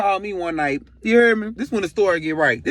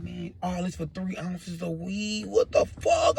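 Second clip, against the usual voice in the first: slow, quiet incredulous plea; softly protest, drawn out; subdued retold dismay; hushed disbelief; 5 dB quieter, much slower than usual. Acts disbelief while held at gunpoint.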